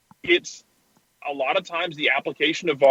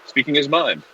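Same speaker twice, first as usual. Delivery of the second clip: dry, lower-pitched mock assurance; sarcastic; 3 semitones lower than usual. Real, not acted. Podcast host assuring colleagues all will go great, sarcastic. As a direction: praise him while meaning the opposite. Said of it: "Was that sarcasm font".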